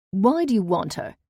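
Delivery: the aunt presses the dangerous man; aunt's voice. A narrator's reading. Aunt questions the buyer.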